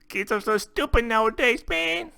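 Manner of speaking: high, laughing through the words. Real, not acted. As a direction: laugh while calling them stupid. Laughing at a dumb video.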